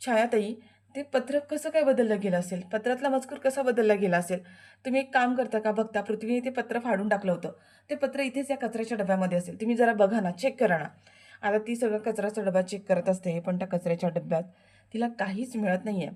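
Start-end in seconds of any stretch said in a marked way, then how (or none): 0.1-10.9 worried request. Acted. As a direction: coax her to check the bin. Anandi asks Chhaya. (छायाला काळजीने विनंती करणारी आनंदी)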